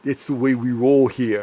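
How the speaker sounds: amateur New York accent. Shown as a demonstration. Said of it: "trying to do my New York accent".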